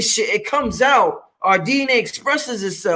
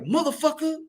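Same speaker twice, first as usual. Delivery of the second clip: soft curse variant; 6 semitones higher, 8 dB quieter than usual. Shown as a demonstration. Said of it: "different ways we say this shit".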